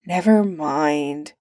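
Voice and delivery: slow weary sigh. Acted. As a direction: sigh it out tiredly. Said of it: "Arthur sighed".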